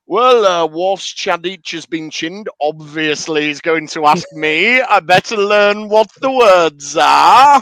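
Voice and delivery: smug, self-satisfied Picard with a mock shout at the end. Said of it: "how up his own arse is Captain Picard that he's like".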